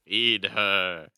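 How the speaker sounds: firm, loud demand. Acted. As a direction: insist loudly. Demanding for the cat.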